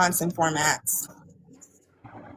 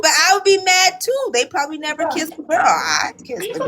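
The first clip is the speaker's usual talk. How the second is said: excited shout; 8 semitones higher than usual. Real, not acted. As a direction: shout it out giddy. Loud excited rant.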